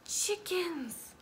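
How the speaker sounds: unvoiced hushed Chickens; whisper. Sharing a secret with a child, whispered.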